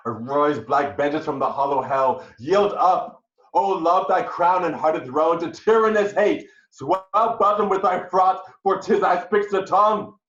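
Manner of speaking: loud, high call for vengeance; vengeful declamation. Acted. Husband rages and swears vengeance before his ensign. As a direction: summon hate with full force.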